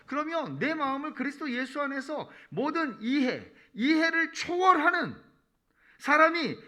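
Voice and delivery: high, loud, drawn-out proclamation; impassioned divine promise. Acted. God urging the weary to hand over their burdens, loud impassioned promise. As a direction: slowly proclaim it at full force, pitched high. Acts out God's promise to believers.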